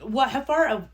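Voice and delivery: talking while chewing candy; words round a Twizzler; mouth full. Real, not acted. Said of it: "sorry, I'm eating a Twizzler".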